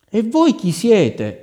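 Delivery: high, slow, loud cry; startled cry. Acted. Queen mother crying out at the unknown woman, startled. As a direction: call out in disbelief at the stranger. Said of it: "gridò la regina".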